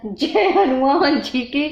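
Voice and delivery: drawn-out, mock cry of a prayer; retold cry. Retelling the nightmare yell to viewers, drawn-out mock cry. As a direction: imitate crying out, stretching the words. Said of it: "कितनी तेज का मुंह से निकला था".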